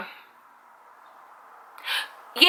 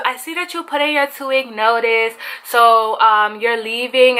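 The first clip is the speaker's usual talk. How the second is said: light imitation Hispanic accent. Cha-Cha confirms employee's resignation, mock Hispanic accent. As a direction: mimic the manager in a Hispanic accent. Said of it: "trying to sound like how they sound".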